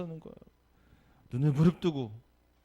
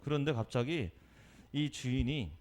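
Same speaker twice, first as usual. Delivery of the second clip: ordinary talk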